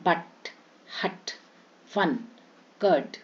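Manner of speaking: quick "uh" in but, हट, फन, कर्ड; short "a" vowel. Shown as a demonstration. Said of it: "यू में अ".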